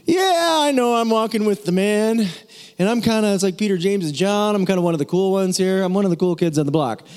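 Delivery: hammed-up cool-kid Peter; mock cocky Peter. Pastor playing Peter boasting to the congregation, lightly mocking. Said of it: "He's like".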